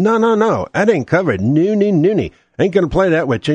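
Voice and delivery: mock insurer refusal. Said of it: "insurer denying hurricane claim".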